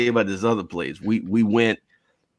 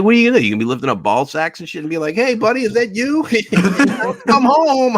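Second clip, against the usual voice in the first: laughing mock; 9 semitones higher than usual. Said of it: "I'm like".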